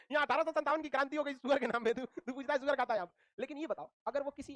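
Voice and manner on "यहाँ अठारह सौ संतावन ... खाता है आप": mock outrage. Student scolding his friend for asking about pork, mock outrage. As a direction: act out a half-joking telling-off. Acted scolding of roommate's question.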